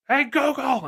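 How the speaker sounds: imitating a child shouting high at the smart speaker; a parent imitates his kid yelling "Hey, Google!". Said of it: "she yells at Google".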